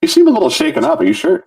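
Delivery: very high, put-on princess voice; mock-worried high partner; concerned Peach. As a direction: fret over a partner in falsetto. Acted Peach worrying about Bowser.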